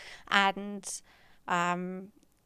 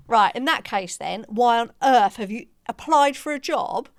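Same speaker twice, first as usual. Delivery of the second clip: cracking up; 2 semitones higher, 4 dB louder than usual. Retold or imitated. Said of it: "I just started cracking up".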